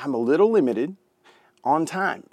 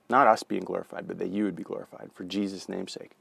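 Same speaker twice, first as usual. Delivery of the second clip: prayer. Real, not acted. Closing prayer.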